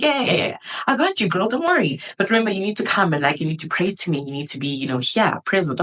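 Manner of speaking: voicing God. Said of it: "He's like".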